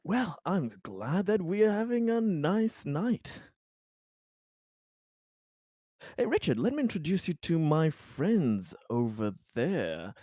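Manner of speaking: lively, swooping host voice; genial host. Acted. Host introducing Richard to friends, genial and lively. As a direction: glad host making introductions, pitch sweeping up and down.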